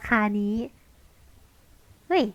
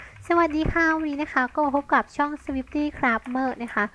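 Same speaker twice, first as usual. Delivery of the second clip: channel intro voice; 3 semitones higher, much slower than usual. Shown as a demonstration. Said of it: "แบบพูดไปด้วย แล้วก็แบบว่ากดคีย์บอร์ดไปด้วย".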